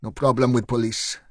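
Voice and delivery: put-on light Eastern European accent on police; a hint of an Eastern European accent. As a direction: shopkeeper nervously speaking in a mild Eastern European accent. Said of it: "said the man in an Eastern European accent".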